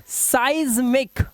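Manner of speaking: seismic drawn out as "saiz-mik"; "sai" sound. Shown as a demonstration. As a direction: slowly model seismic with "sai" up front. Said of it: "थोड़ा थोड़ा sound साई जैसा है".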